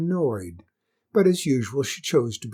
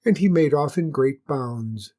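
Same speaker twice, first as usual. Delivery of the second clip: usual speaking voice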